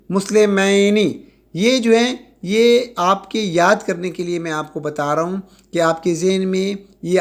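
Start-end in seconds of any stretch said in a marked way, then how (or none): 0.1-1.2 مسلمینی said slowly, syllables apart; slow demo. Shown as a demonstration. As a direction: model the ending ینی slowly. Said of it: "دیکھیں مسلمینی". (آہستہ واضح تلفظ)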